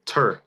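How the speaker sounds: tur- alone, punched and falling; stressed first syllable. Shown as a demonstration. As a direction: isolate the stressed TUR of turbulent. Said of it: "The first syllable".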